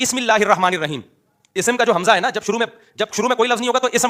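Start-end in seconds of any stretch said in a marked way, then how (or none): 0.0-1.0 بسم broken into "bi-ism", hamza sounded; mock misreading. Shown as a demonstration. Teacher giving an absurd example, mock misreading. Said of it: "یہ ایسا ہی ہے جیسے کوئی کہے".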